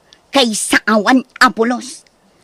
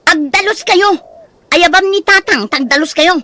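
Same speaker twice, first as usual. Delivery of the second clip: scolding command; 4 semitones higher than usual. Acted. Mother scolding the family.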